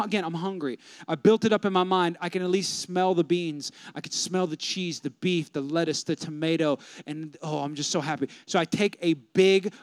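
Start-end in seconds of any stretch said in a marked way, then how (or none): 2.2-8.3 savoring. Retold or imitated. Savoring the smell of food.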